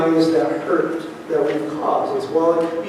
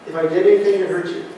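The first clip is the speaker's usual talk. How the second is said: quick mumbled repeat; much faster than usual. Shown as a demonstration. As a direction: toss the apology off quickly, half-hearted. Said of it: "It's not something like this".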